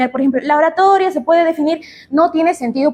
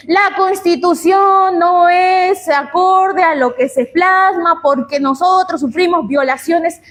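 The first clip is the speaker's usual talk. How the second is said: a light mock of a politician, slow and raised at the start; politician's speech; 3 semitones higher than usual. Teacher imitating a politician at a rally, mildly hammed-up. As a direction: orate the opening line like a campaign promise. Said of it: "Están dando su discurso y dicen".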